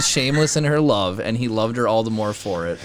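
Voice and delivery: ordinary delivery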